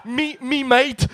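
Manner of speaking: slow laughing Aussie "mate"; Australian accent. Retold or imitated. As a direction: drawl it out like a cheery Aussie bloke. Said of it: "mon accent australien est moyen".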